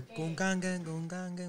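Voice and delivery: imitated beat sound. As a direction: mimic the track's little sound. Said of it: "tiene como un sonido como que". (imitando el sonidito de la pista)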